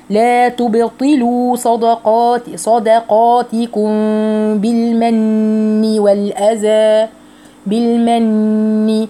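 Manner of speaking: slow chanted phrase, drawn-out vowels; tajweed recitation. Shown as a demonstration. Teacher models the phrase for students, slow chanting. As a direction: recite slowly, each syllable clear.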